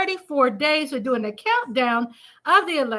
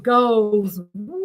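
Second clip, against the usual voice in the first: mock crowd cheer; 4 semitones lower than usual. Mock crowd cheer after own singing.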